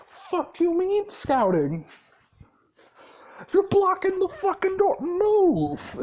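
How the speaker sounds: angry yell. Retold or imitated. Gray yelling at the crowd blocking the door, high angry shout. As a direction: bark it at them like they're in the way.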